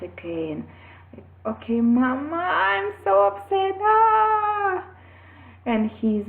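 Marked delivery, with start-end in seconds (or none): 1.5-4.8 put-on high, strained child's voice breaking into a cry; upset little boy. Son telling his mother he is upset, high upset child voice. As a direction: play the small son overwhelmed and wailing.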